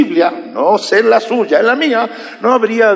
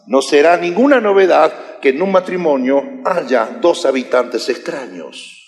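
ordinary delivery

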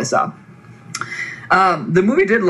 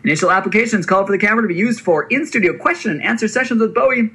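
hype voice; 2 semitones higher than usual. Acted. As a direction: sell it like a carnival barker. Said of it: "use a hype voice".

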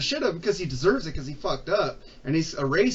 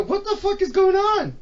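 laughing disbelief; 12 semitones higher, 4 dB louder than usual. Retold or imitated. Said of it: "And I go".

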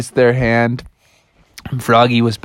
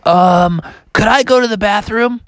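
slightly higher, hesitant pupil frog; Froggy asking; 8 semitones higher than usual. Acted. Froggy asks to use the bathroom, higher hesitant pupil voice. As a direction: lift the voice into a timid question. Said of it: "Froggy raised his hand and said".

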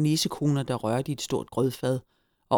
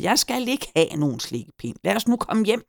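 raised, pleading protest; despairing cry; 7 semitones higher than usual. A narrator's reading. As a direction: plead desperately to go home. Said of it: "skreg Hyggen fortvivlet".

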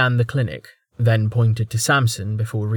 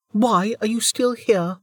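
higher, hostile voice; hostile woman; 11 semitones higher than usual. Acted. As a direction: challenge him to leave. Velika confronts intruder.

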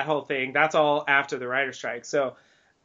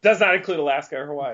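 quick fine-print disclaimer; home shopping host; faster than usual. Pretend. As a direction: rush the small print like an ad. Mock ad disclaimer.

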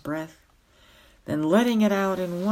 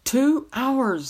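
higher, louder shout over a noise; 8 semitones higher, 6 dB louder than usual. A narrator's reading. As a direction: shout over a sudden din. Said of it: "he had to shout the second of these words".

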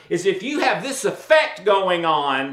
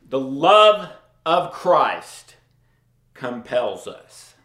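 slow, low reading; 6 semitones lower, slower than usual. Shown as a demonstration. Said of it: "Paul says it right there".

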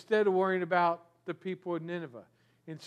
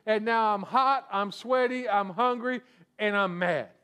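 mock angry rant. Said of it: "He gets mad again".

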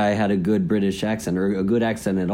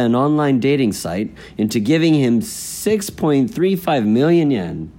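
measured, emphatic headline reading; news read. Acted. Co-host reading the day's fraud story, news read.

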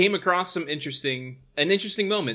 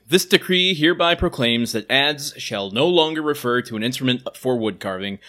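town crier; 6 dB louder than usual. Acted. Medieval ad decree read.

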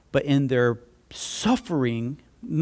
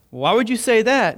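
higher, louder mock surprise; surprised question; 7 semitones higher, 5 dB louder than usual. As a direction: ask it like you're caught off guard. Retold reply to stranger.

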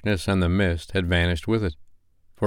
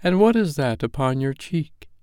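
higher, solemn ghostly warning; ghost of Christmas past; 7 semitones higher than usual. Acted. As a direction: speak as an otherworldly spirit giving a warning. Ghost gently asks.

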